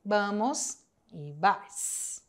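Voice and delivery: vamos e vais said very slowly, with a rise; slow answer. Shown as a demonstration. Teacher repeating the answer slowly for students.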